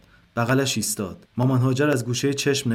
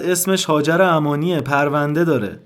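loud, desperate shout of پرونده داره; shouting at the staff to stop them; 4 semitones higher, 5 dB louder than usual. A narrator's reading. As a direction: yell it across the ward.

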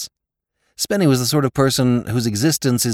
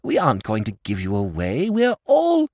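earnest silly-ass objection, cut short; protesting lordship; 9 semitones higher than usual. A narrator's reading. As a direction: protest in a pitched-up lordly voice. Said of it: "protested his lordship".

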